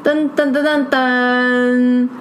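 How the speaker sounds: slow vocal drumroll. Real, not acted. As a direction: build suspense with a drumroll. Vocal drumroll before revealing price.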